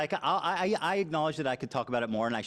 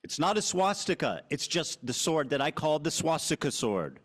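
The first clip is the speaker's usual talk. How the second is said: insistent; 5 semitones higher, slower than usual. Real, not acted. Repeating the denial, insisting.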